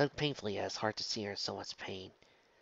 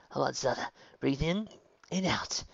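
gently coaxing; 4 semitones higher, 3 dB louder than usual. A narrator's reading. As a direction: coax her to breathe gently. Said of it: "Werner coaxed her gently".

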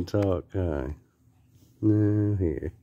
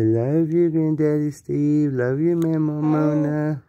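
higher and louder, sing-song prompt; coaxing demo; 4 semitones higher, 3 dB louder than usual. Shown as a demonstration. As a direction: spell it out cheerfully for baby to repeat.

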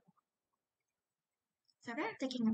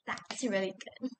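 whispered; 5 semitones lower than usual. Real, not acted. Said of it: "unvoiced whisper".

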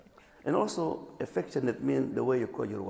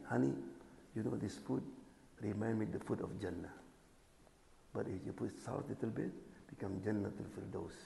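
gentle sweet-talk; 6 dB quieter than usual. Retold or imitated. Husband gently praising wife's cooking.

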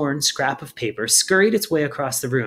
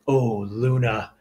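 slow sorrowful sigh; 2 semitones lower, much slower than usual. A narrator's reading. Glurk's dismayed realisation.

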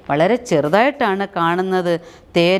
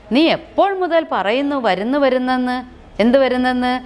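put-on annoyed child; 4 semitones higher than usual. Chunni complains to Gopu.

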